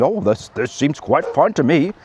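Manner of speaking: put-on plummy British accent, an apple in the mouth; posh British accent. Mocking Keir Starmer as unconcerned, posh British accent. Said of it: "an apple in my mouth, a British accent".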